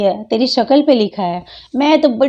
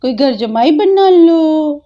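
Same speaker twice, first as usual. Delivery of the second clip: mock plea; 3 semitones higher, slower than usual. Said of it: "चिल्ला चिल्ला के बोल रहा".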